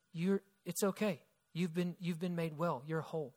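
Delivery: soft, tender reassurance; Jesus reassures the trembling woman, soft and tender; gentle reassurance. Retold or imitated. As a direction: comfort a frightened woman gently.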